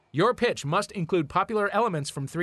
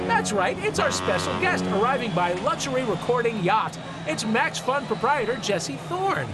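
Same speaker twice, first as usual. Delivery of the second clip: announcer voice; 6 semitones higher than usual. Acted. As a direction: announce the guest like a TV host. Host announces the special guest.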